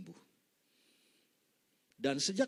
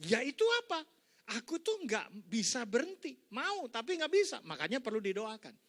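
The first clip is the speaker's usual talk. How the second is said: voicing the friend; 7 semitones higher than usual. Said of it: "Dia pinter sekali ngomong".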